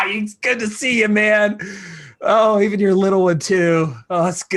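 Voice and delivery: loud, high, jovial shout; boisterous greeting. Acted. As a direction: greet an old rival with gusto. Sloth greeting the heroes.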